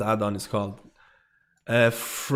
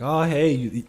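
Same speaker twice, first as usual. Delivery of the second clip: flattering gamer; 3 semitones higher than usual. Retold or imitated. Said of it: "It's like".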